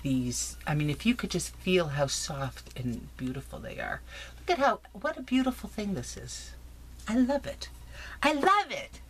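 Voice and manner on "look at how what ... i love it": high, delighted gushing; excited gushing. Real, not acted. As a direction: squeal over the gift. Gushing over craft giveaway.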